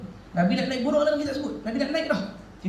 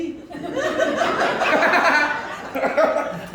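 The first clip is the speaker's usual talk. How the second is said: high, hearty burst of laughter; 7 semitones higher than usual. Real, not acted. Audience and speaker joking together. (ketawa besar)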